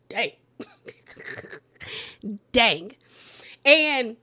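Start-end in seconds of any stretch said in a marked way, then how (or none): 0.1-2.9 amazed dang. Real, not acted. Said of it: "I said".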